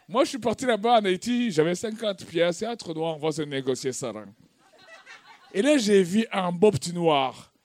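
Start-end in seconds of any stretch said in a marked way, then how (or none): none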